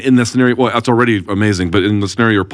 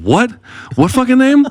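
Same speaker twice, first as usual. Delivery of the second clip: impatient bartender. Retold or imitated. Bartender yelling at the wife over the bar noise. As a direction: bark the question like a fed-up bartender. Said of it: "the fucking bartender every time would be like".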